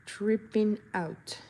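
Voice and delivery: Tripping out drawn out slowly; slow echo. Shown as a demonstration. Echoing her own phrase, slow and drawn out.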